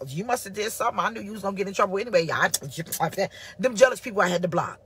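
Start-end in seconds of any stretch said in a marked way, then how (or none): 0.1-2.3 1 smug blame. Retold or imitated. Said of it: "he ain't got".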